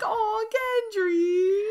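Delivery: high, slow, teary mock sob over Gendry; tearful aw. Touched listener mock-crying over Gendry, high and slow. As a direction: draw it out like you're welling up, half joking. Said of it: "I was like".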